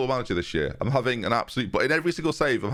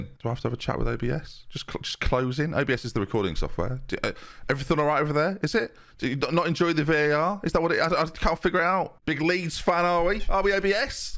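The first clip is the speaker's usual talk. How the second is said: mock interrogation; 4 semitones higher than usual. Mock quarrel with recording software.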